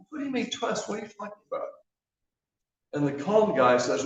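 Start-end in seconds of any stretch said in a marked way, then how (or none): 0.1-1.7 higher, disbelieving panic; can't believe what he hears; nervous guy. Acted. Stranded man baffled by his friend's calm, higher and anxious.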